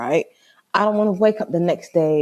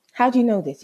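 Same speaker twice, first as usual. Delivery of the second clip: firmer, more contained challenge; vexed repeat; 5 semitones higher, faster than usual. Retold or imitated. Woman pressing boyfriend for an answer, contained vexation. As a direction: repeat it with only a slightly raised pitch. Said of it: "I was so vexed".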